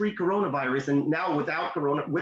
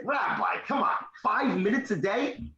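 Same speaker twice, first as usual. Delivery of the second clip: higher-pitched disbelieving question; incredulous; 6 semitones higher than usual. Retold or imitated. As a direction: push back, mildly incredulous. Retold disbelief at rabbi's claim.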